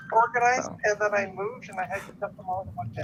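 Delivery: faint delayed echo of the words; distant echoing repeat. Real, not acted. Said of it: "Someone got echo".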